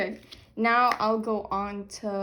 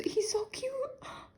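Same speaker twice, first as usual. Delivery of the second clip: whispered swoon; 14 semitones higher, 7 dB quieter, slower than usual. Real, not acted. Swooning over card.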